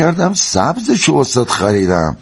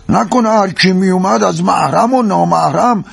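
higher, suspicious questioning; jealous suspicion; 3 semitones higher than usual. Acted. Husband questions wife about watching other men, jealous suspicion. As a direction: press the accusation, ending on a demanding question.

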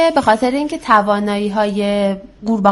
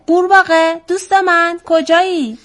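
high-pitched call for a lost friend; crying out; 8 semitones higher than usual. A narrator's reading. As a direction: call out searchingly, voice raised high. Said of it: "که وزغ فریاد زد".

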